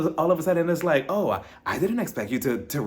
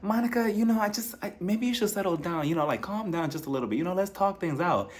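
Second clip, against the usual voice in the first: high, soft, talking down to her; a hint of a patronizing mother soothing her daughter; lightly voiced condescending mom, higher and softer; 4 semitones higher, 4 dB quieter than usual. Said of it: "that condescending tone".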